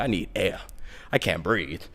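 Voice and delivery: low, very quiet complaint; acted faintness, barely voiced; weak plea. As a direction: drop to a faint, sickly murmur. Retells gasping for air while sick.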